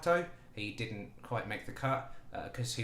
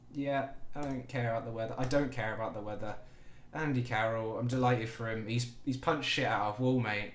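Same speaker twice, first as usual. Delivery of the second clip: normal talking voice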